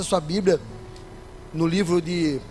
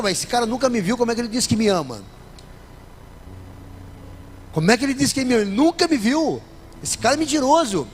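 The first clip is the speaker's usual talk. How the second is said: skeptical objector; 2 semitones higher, faster than usual. Retold or imitated. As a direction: voice the suspicious listener. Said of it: "pode parecer estranho". (o ouvinte desconfiado, indignado e mais agudo)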